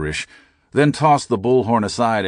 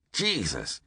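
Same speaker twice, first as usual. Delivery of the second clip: muttered; 2 semitones higher, 9 dB quieter than usual. A narrator's reading. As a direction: mutter it under your breath. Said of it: "he muttered".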